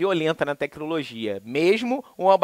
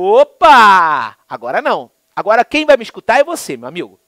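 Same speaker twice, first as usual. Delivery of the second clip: firm retort; 8 dB louder than usual. Retold or imitated. Customer standing up to clerk.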